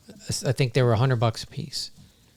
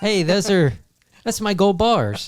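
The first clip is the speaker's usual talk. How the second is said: higher, laughing fake indignation, slower on the ending; mock outrage; 7 semitones higher, 4 dB louder than usual. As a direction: ham up a greedy claimant while laughing. Mocking claimant, laughing.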